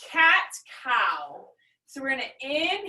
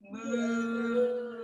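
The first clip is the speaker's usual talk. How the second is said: cow moo; 4 dB quieter than usual. Shown as a demonstration. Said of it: "back to cow".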